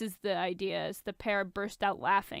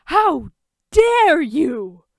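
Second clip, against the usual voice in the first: mock outrage; 7 semitones higher, 13 dB louder, much slower than usual.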